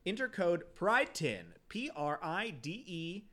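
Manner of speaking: a lightly upbeat sponsor read. Acted. Reading the sponsor ad, lightly upbeat. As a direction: pitch the candy shop to listeners.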